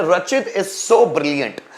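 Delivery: very slow, word by word, for students to copy; slow dictation. Shown as a demonstration. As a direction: spell the sentence out slowly like a teacher. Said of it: "teacher dictates example sentence".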